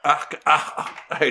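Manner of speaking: haut-le-cœur avec un ah écœuré; dry heaving. Real, not acted. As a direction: retenir un vomissement. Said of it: "je suis pas bien". (haut-le-cœur)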